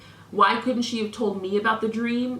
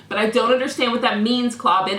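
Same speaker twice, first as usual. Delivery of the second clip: mild indignation, pressing him with "understand"; mildly heated. Real, not acted. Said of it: "as I'm getting heated".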